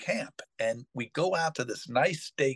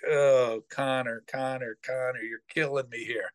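exasperated. Retold or imitated. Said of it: "I'm like".

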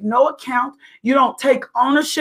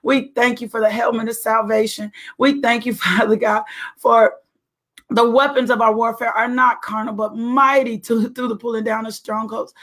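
fervent prayer voice, steady rhythm. Acted. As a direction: pray it out with conviction. Leads a prayer.

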